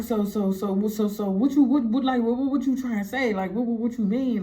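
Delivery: acted stammer, repeating each word; imitating a flustered stutterer; nervous stutter. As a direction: trip over the words, struggling to get them out. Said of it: "he was stuttering".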